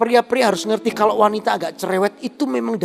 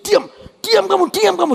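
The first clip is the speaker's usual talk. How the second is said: higher, snapped shut-up, half-joking; mock angry hush; 11 semitones higher, 4 dB louder than usual. Husband silencing chatty wife.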